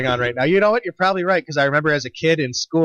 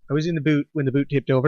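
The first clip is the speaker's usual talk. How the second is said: put-on Canadian joke accent; faster than usual. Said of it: "that's a good Canadian joke, eh?".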